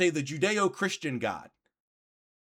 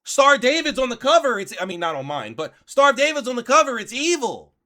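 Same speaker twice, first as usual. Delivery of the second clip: mock Candace; 5 semitones higher, 5 dB louder than usual. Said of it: "And then she goes".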